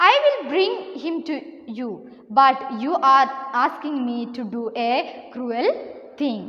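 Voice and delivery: slow, deliberate classroom story reading; story read-aloud. A narrator's reading. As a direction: read it out slowly, phrase by phrase. Reads the crocodile's reply. (സാവധാനം കഥ വായിച്ചു കേൾപ്പിക്കുന്നു)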